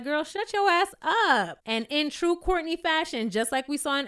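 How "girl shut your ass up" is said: slow mock snap.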